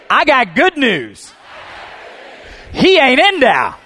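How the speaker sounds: loud, high, slow full-force shouting; preaching shout. Real, not acted. Preacher leading the church to shout, full-force preaching. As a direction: lead the congregation in a shout of joy. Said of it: "shout after me".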